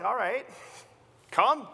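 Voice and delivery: come, called out loud and high; Jesus calls. Acted. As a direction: wave him over the water. Jesus inviting Peter out.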